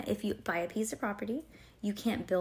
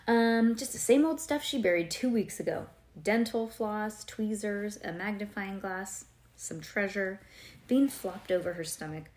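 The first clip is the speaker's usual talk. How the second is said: story narration. Acted. Reads story aloud to child.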